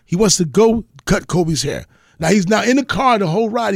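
usual speaking voice

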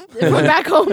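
put-on laughing Indian accent. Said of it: "I do the accent".

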